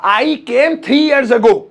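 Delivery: spelled out slowly, word by word; teacher modelling the phrase slowly; slow model phrase. Shown as a demonstration. Teacher drills a student, slow clear model. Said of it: "ago लगाएंगे".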